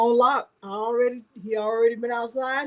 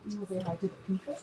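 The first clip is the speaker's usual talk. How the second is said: put-on baby talk to dog; 3 semitones lower, 12 dB quieter, much faster than usual. Coaxing dog to greet viewers.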